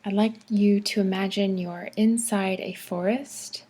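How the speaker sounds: unhurried forest visualization, phrase by phrase; calm meditation narration with spacious pauses; guided meditation. Acted. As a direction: guide them gently through relaxation, pausing often.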